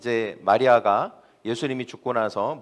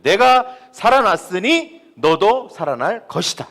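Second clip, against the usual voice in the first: proclaiming; 5 semitones higher, 7 dB louder, slower than usual. Acted. Preacher voices Jesus' proclamation.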